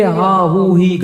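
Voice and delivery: drawn-out sounds of friends carousing; lightly mimicked merriment; mock banter. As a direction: imitate noisy chatter among friends, slowly. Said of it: "دوستوں کے ساتھ بیٹھیں گے".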